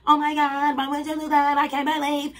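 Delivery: high, loud hammed-up gasp of sympathy; mock sympathy. Refusing to be the sympathetic friend, loud mock gasp. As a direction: ham up the shocked friend. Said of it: "No, I'm not".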